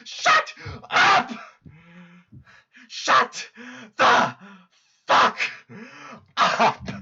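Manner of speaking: fuzz distortion from mic clipping. Real, not acted. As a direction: overdriven mic crackle. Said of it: "Your mic is clipping".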